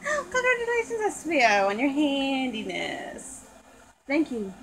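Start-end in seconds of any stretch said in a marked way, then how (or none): 0.0-3.5 be thrilled and amazed; gasp of delight. Acted. Doll congratulating Espio on his craft, delighted gasp.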